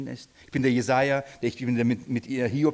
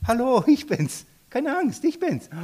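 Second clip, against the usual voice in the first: much higher, bright and friendly; cheerful Jesus; 9 semitones higher than usual. Acted. Jesus calls to the frightened disciples, cheerful and much higher. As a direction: cheerfully wave away their fear. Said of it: "Ich lieb diese Stelle".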